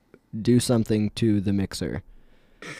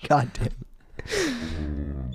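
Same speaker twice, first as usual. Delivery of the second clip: chipmunk voice; 13 semitones higher, 6 dB quieter than usual. Real, not acted. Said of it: "sounds quite a lot like a cartoon singing group".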